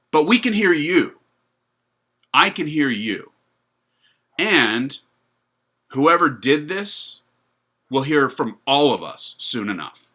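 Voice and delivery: rally the crowd, slow and loud. Retold or imitated. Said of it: "And he shouted even louder".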